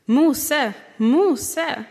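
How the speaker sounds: loud, high call across the distance; God calling out. Acted. God calling Moses from the burning bush, loud and high. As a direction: call his name out like a summons.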